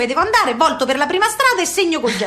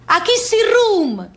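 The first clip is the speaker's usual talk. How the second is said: a slow, higher attempt at an American accent; imitating American; 7 semitones higher, 3 dB louder, slower than usual. American official naming the room, in a slow, higher mock American accent. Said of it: "diceva l'americano".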